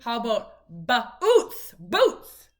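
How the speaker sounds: put-on mother modelling the long vowel for her child; stretched vowel. Shown as a demonstration. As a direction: draw out the oo in "Boots". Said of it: "So it's a long oo".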